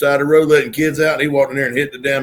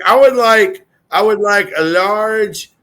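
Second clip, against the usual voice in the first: mock polite order; 5 semitones higher, much slower than usual.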